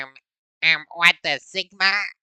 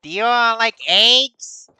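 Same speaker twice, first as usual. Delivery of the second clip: high, loud hammed-up French accent; mock French accent; 6 semitones higher, 6 dB louder than usual. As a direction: ham up a silly French voice. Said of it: "it was a little bit French".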